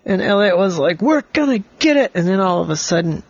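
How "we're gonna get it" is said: put-on quick, high-pitched boyish cry; excited determination. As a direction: fire back eagerly, as in a storybook battle. Boy's determined cry in story.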